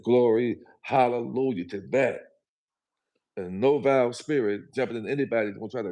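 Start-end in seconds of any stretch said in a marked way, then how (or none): 0.0-2.2 joyful praise. Retold or imitated. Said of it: "And I said".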